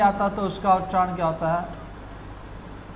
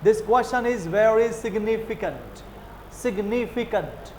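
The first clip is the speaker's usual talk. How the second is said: slow sing-song British significant; British lilt, slow; much slower than usual. Shown as a demonstration. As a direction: let the sentence dance slowly. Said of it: "ऐसे dance करते हैं". (अंग्रेज़ों की तरह झूमते हुए)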